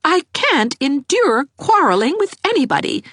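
high pleading lady; a tearful mother pleading for peace; high, tearful plea; begging. A narrator's reading. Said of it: "eyes filling with tears".

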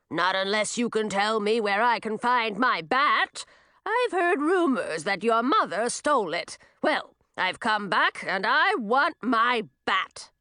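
a hint of a demanding old witch; old witch confronting the girls, a touch of demand; lightly voiced old witch. Madine demands her stolen bat.

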